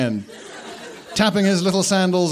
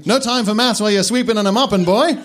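louder, fast, chuckling taunt; 7 semitones higher, 4 dB louder than usual. Acted. Headmaster teasing the new caretaker, chuckling. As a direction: chuckle through the teasing order. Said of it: "chuckled Dumbledore".

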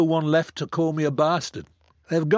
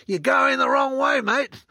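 high mock Australian call across the sea; Australian hail; 13 semitones higher, 3 dB louder, slower than usual. Australians on a passing ship hailing him, mock Australian call. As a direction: sing out like an Aussie sailor, much higher. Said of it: "they called out".

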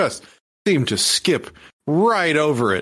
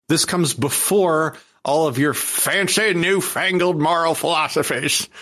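put-on old guy voice; 4 semitones higher than usual. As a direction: grumble like an old man. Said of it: "I'm gonna use the old guy voice a lot in this video".

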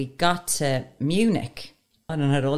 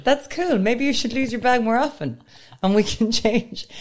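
mocking boyfriend; 8 semitones higher than usual. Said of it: "he was like".

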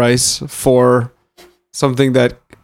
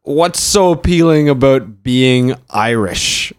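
slow, announcing "What's so appealing about being Irish?" like a countdown heading; list-show title read; slower than usual. Shown as a demonstration. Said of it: "Number five".

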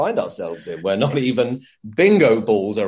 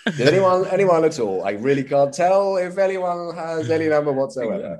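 put-on frail old bingo caller; 3 semitones higher than usual. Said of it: "Just this, so".

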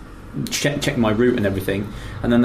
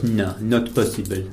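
French policeman; slower than usual. Retold or imitated. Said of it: "He goes".

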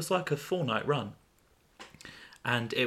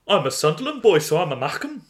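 proud introduction; 5 semitones higher, 5 dB louder than usual. Acted. Acted story dialogue.

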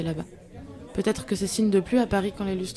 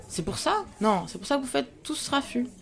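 higher, mock-astonished question; incredulous; 4 semitones higher than usual. Claudine, tipsy, mocks Renaud's worry with surprise. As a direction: laugh off his scolding.

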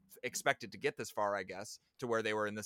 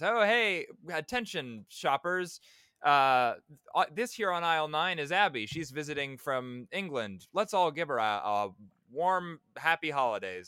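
higher, louder mock announcer call; store announcer; 6 semitones higher, 6 dB louder than usual. Jack calling out to the store's shoppers, hammed-up announcer voice. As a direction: boom it out like a store PA.

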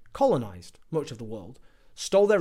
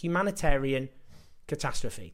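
slow sarcastic echo. Shown as a demonstration. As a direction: drag out Humanitarian catastrophe slowly, each word weighed with scorn. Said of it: "To stop this humanitarian catastrophe".

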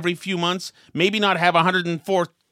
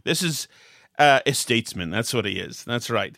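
mock pompous politician; 6 semitones lower than usual. Host mocking Kerry's speech, low pompous drone. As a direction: lightly mimic a bloviating orator. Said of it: "he doesn't talk like this".

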